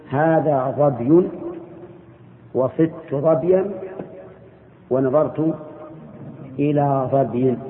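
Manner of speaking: very slow, each case ending on ظبي spelled out; slow model sentences. Shown as a demonstration. Teacher modelling case endings for students, very slow. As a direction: dictate it slowly so they hear the endings. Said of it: "فتقول".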